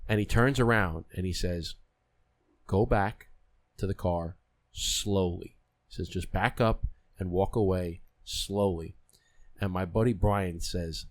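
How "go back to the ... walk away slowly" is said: slow, measured, hushed-leaning retold warning; slow cautious warning. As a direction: space out each word, calm and careful. Tour guide warns group of panther.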